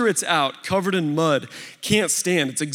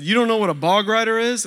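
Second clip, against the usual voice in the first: higher, mock-incredulous grandpa; teasing disbelief; 6 semitones higher, 3 dB louder, faster than usual. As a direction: tease him for not knowing. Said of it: "making fun of me".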